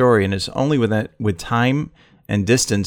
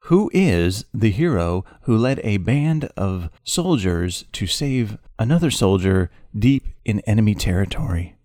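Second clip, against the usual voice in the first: game show host. Pretend. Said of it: "It does feel like a game show".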